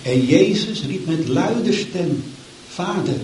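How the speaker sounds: solemn, measured Bible reading; scripture reading. Acted. Preacher reading the crucifixion to the church, solemn. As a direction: read the passage with gravity. Reads Luke 23 aloud.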